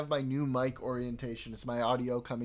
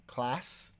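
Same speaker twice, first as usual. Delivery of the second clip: put-on British accent.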